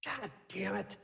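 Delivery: distant voice. Acted. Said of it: "a distant voice and way in the background go".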